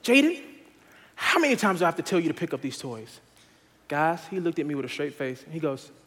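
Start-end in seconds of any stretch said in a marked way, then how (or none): 0.0-3.2 annoyed father scolding his son, mildly frustrated; frustrated dad. Retold or imitated. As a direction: call his name sharply, then scold wearily. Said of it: "Finally, I'm frustrated".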